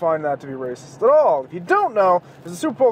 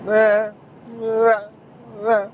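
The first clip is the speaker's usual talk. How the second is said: badly faked car whooshes, raised pitch; imitated passing cars; 4 semitones higher, 3 dB louder, much slower than usual. Host pretending cars go by on his drive, half-hearted car noises. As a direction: fake cars going by with short "eh" noises. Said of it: "those are the sound of cars going by".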